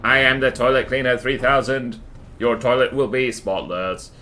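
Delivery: flat beeping robot voice. Retold or imitated. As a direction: announce yourself like a robot. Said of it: "That just makes it sound like a robot".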